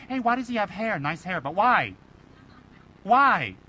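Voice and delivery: incredulous nosy critic, rising on the last why; mock the gossip who questions his hair. Critic scoffing at the Rinpoche's hair, mocking.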